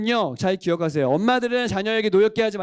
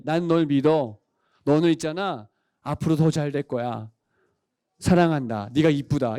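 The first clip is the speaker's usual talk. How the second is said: put-on low, tender words to a child; loving mother; 6 semitones lower than usual. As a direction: reassure your child in a lowered, tender voice. (낮고 다정하게 격려하는 엄마 말투)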